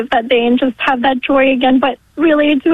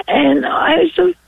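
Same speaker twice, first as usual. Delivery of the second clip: choked up; 3 semitones higher than usual. Real, not acted. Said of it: "I get a little emotional talking about this".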